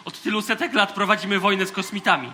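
rising outraged commander's speech; pompous commander building to a furious rebuke; indignant tirade. Acted. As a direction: scold the recruit with mounting indignation.

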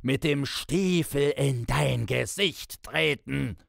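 high-pitched, frenzied bellow; enraged roar, far above normal pitch; screaming and cursing. A narrator's reading. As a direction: scold at the top of your voice, barely human. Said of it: "Man konnte es ein Gebrüll heißen".

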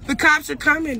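sudden loud call; loud warning. Real, not acted. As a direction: throw it at him loudly, as a warning. Repeating warning to the aggressor.

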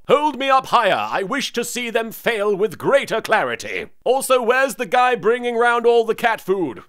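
lightly hammed-up haughty cat voice; lightly voiced Pharaoh. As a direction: order them about as a pampered cat. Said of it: "with Pharaoh the cat".

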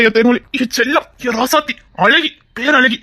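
husband fondly calling his wife pet names; fond flattery. Acted. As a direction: tease her with sweet names.

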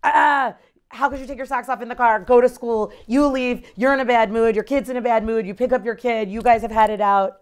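fast, half-acted outburst at the kid; mock exasperated scolding. Mom scolding her child over socks in the car, mock exasperated. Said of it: "like I said".

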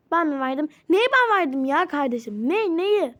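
loud indignant questions. Acted. Woman denies giving the teacher documents, loud and indignant. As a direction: push back, outraged.

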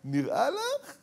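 high-pitched dismissive question; cheeky teenage daughter. Acted. Daughter to mother who orders a change, cheeky retort. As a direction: toss it back high and incredulous. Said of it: "מה היא אומרת לה".

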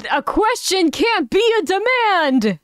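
high, indignant protest; exasperated objection. Real, not acted. Listener objects to the bad writing.

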